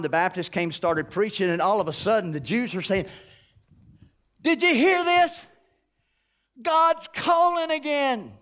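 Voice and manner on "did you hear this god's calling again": can't believe it, tell everyone; excited gossip. Acted. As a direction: townsfolk spreading exciting news, pitched up. Jews excitedly sharing news.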